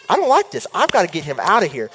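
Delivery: a jump up in uneasy protest; nervous, wanting it gone. Retold or imitated. Wizard at the window, reacting in mock fright.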